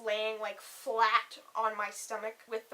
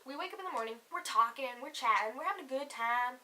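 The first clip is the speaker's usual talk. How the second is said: slipping into a Southern twang; Southern accent. Real, not acted. Recounting the morning chat, slipping into a Southern accent. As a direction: tell it with a light Southern lilt. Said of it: "I was just southern".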